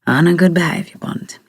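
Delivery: amused echo of "good behaviour bond"; said with laugh. A narrator's reading. Jimmy echoing her question back, lightly amused voice. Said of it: "he says with a laugh".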